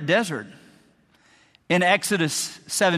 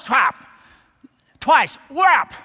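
mock strike sounds; 7 semitones higher, 4 dB louder, much slower than usual. Striking the rock.

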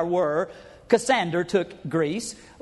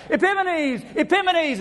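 high, loud chant of Epimanes; high, loud mocking crowd chant; mock crowd cry; 10 semitones higher, 4 dB louder than usual. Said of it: "they'd be crying out".

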